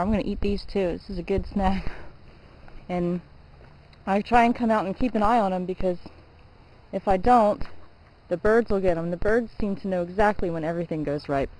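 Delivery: talking while chewing berries; words round a mouthful of fruit; mouth full. Real, not acted. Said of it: "I'm sorry I'm talking with my mouth full".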